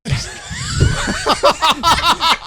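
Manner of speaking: high shrieking laugh; loud burst of laughter. Real, not acted. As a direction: crack up loudly. Laughing at goo line.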